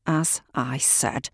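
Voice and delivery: slow, tight-jawed and restrained; through gritted teeth. Acted. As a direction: force the words out through clenched teeth. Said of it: "through gritted teeth".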